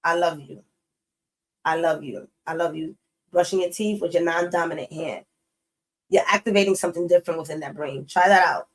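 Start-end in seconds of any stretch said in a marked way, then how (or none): 0.0-2.9 tender self-affirmation. Shown as a demonstration. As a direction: say it gently to yourself in the mirror. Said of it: "say to yourself".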